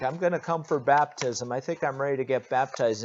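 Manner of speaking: lightly voiced eager newcomer; preacher playing a crowd member, mock eager. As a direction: act a hopeful newcomer, quick.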